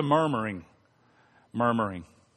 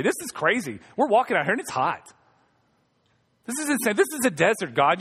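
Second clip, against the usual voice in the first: whiny complaining. Retold or imitated. Israelites complaining.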